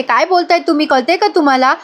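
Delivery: mildly acted annoyed questioning; retold annoyance. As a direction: demand answers crossly, keeping it light. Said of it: "Gautami चिडते आणि म्हणते".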